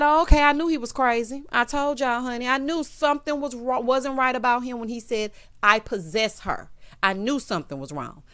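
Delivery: loud, high, outraged exclamation. Real, not acted. Vlogger reacting in outrage to the mic snatching, loud. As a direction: raise your voice in disbelief.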